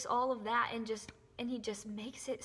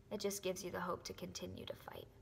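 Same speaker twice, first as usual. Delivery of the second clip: whispering; 5 dB quieter than usual. Real, not acted. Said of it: "I'm so sorry that I got so emotional".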